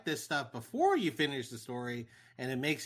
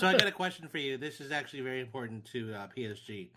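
mouth full; 2 semitones lower than usual. Real, not acted. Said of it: "I got a mint in my mouth".

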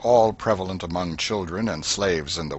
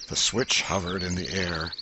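ordinary delivery

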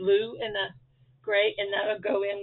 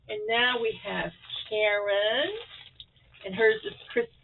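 talking while crunching; words over crunching noise; crunching chips. Real, not acted. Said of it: "Sorry for the crunching".

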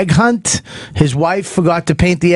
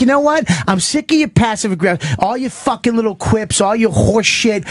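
acted fed-up rant; 4 semitones higher than usual. Acted pilot rant at colleague.

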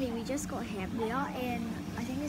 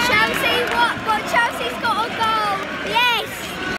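excited; 9 semitones higher, 10 dB louder, slower than usual. Real, not acted. Team scores a goal live.

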